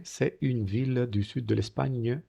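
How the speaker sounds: c'est said slowly and carefully; slow, deliberate French model reading. Shown as a demonstration. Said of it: "no digo c'est".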